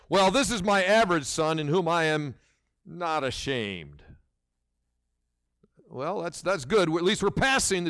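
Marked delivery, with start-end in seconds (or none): 0.1-4.0 a hint of a half-hearted God sighing not ashamed; mock lukewarm God. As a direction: hand out a grudging passing grade. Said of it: "a C minus would be something like this".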